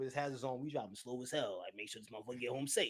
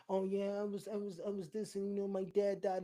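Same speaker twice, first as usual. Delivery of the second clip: mock mourner; 6 semitones higher than usual. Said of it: "when somebody goes".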